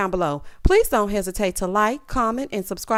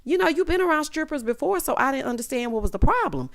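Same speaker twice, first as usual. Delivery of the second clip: mock confused daughter; 6 semitones higher than usual. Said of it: "Kandi is like".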